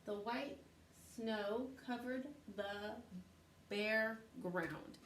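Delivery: slow, word-by-word reading; slow reading aloud. Shown as a demonstration. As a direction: read it out slowly, spaced. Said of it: "it says".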